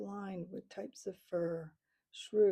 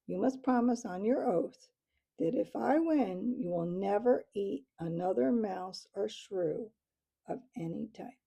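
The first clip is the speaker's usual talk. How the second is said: solemn; 4 dB louder than usual. Acted. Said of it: "said Matthias solemnly".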